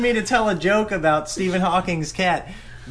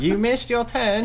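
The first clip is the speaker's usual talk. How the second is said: GPS voice; 4 semitones higher than usual. Retold or imitated. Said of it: "I can't do a very good one".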